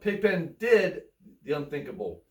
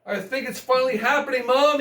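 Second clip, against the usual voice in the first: yelled; 4 semitones higher, faster than usual. Acted. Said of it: "he yelled".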